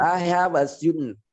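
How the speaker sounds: American accent, drawn out, "student" as styud-n. Shown as a demonstration. Teacher imitating an American speaker, American accent. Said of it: "gitu ya dia ngomong".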